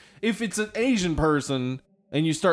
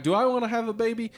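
quoted uncertain woman; 6 semitones higher, much faster than usual. Retold or imitated. Voicing a hesitant woman.

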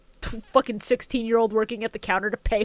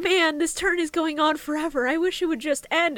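Cyrus; 5 semitones higher than usual. Retold or imitated. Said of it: "Cyrus keeps talking about".

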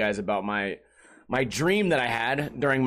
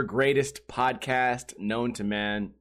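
normal talking voice

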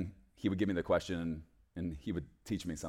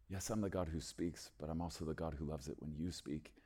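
softer, tender retelling of God's reply; gentle and soft; 3 semitones lower, 7 dB quieter than usual. Retold or imitated. Preacher voicing God's loving answer, soft and tender. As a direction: say it like a loving whisper of comfort.

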